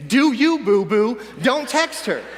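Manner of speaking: cocky hype-man inner voice; lively, cocksure bro talk. Acted. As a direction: puff up a friend with swagger. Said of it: "and it's cocky now".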